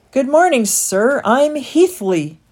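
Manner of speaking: high, eager little rat greeting; a nervous young rat says hello; rat character voice. Acted.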